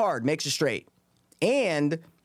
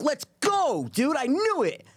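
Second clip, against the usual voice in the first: high, exultant shout of victory; excited outburst; 12 semitones higher than usual. Retold or imitated. Player celebrating his winning call at the table, high exultant cheer. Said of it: "I'm like".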